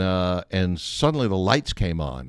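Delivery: ordinary talk, nothing marked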